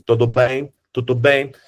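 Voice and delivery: Genoese Italian like Portuguese; Genoese accent. Shown as a demonstration. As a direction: lilt it like a Genoese who sounds Portuguese. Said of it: "like the Portuguese".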